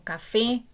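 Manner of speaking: "café" with the final "fé" stressed; stress on last syllable. Shown as a demonstration. Teacher gives an example of acute words, stressing "fé" in "café". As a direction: lean on the "fé" of "café". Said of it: "el acento está en la última sílaba".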